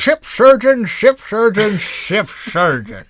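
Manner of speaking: ship surgeon repeated, starting high and loud, slowing down at the end; playful tongue twister, easing off on the last one. Pretend. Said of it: "say that a bunch of times fast".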